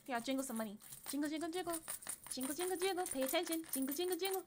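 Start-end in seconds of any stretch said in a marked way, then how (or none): 1.1-4.5 high, chirpy jingling chant; playful attention-getting. Pretend. Streamer jingling money to hold attention, high playful chant. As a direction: coax a distracted baby with jingling keys.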